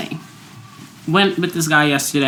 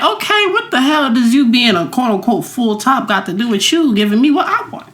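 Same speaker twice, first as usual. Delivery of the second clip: high-pitched, exasperated retort; indignant comeback; 5 semitones higher than usual. Retold or imitated. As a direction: act out an incredulous challenge to a date. Retelling her indignant comeback to date.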